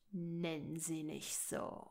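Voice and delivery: a quiet, slowed snarl of warning; hissed retort. Acted. Son snaps back defending his girlfriend, low hiss. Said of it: "fauchte er zurück".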